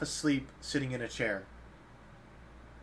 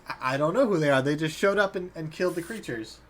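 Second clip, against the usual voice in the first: panicky governor; 3 semitones higher, 4 dB louder than usual. Acted. Governor protests to the elven woman.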